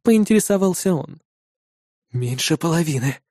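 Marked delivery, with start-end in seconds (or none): 2.1-3.2 softer, squeezed-out answer; forced out. A narrator's reading. The hero reluctantly admits losses to Nuki, soft. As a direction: make yourself admit it. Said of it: "выдавил я из себя".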